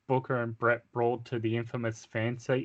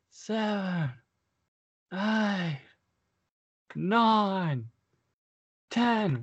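high shouted count building louder; shouted referee count; 9 semitones higher, 4 dB louder, much slower than usual. Acted. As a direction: count it out, louder each number.

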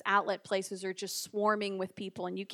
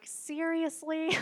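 mock disbelief; 5 semitones higher, 3 dB quieter, much slower than usual. Retold reaction to prying question.

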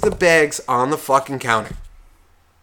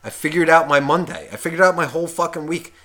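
mock excited; faster than usual. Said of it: "I'm picturing the guy being all excited".

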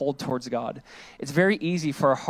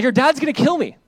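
high, louder panicked plea; panicky David; 8 semitones higher, 5 dB louder than usual. Pretend. David panicking to Jonathan about his father, high and loud. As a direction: blurt it out like a man in danger.

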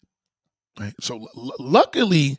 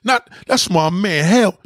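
incredulous outburst; 5 semitones higher, 3 dB louder than usual. Retold or imitated. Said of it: "I said".

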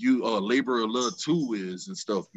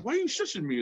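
annoyed questioning; 11 semitones higher, 4 dB quieter, faster than usual. Retold or imitated. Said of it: "So people are like".

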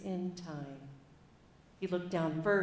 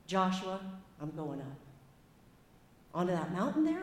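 lightly put-on American Southern accent. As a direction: read old Moses with a modest Southern accent. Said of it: "apologies for my terrible accent".

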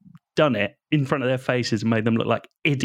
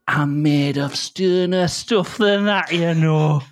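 quoting the dog; 4 semitones higher, slower than usual. Acted. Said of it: "he just started saying this phrase".

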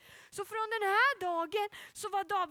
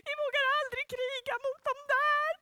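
scared soldiers; 9 semitones higher, 4 dB louder, faster than usual. Acted. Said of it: "de stod så här".

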